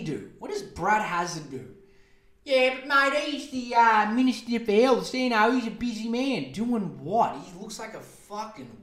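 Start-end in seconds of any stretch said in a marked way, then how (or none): 2.4-6.5 mock defender. Voicing a defender of the minister.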